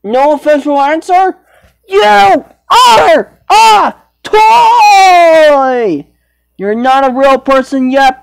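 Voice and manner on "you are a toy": much higher, very slow, wailing shout; dramatic crying shout. Pretend. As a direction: cry it out like a melodramatic scolding. Pretend scolding Pinocchio.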